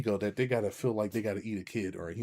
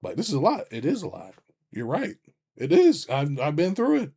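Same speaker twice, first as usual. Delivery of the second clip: reassuring friend; 5 semitones higher, 6 dB louder than usual. Retold or imitated. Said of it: "or I can be like".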